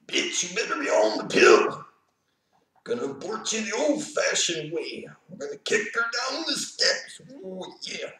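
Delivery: high, strained wrestler impression; Macho Man. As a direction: rant like a hammed-up wrestling showman. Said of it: "What would Macho Man".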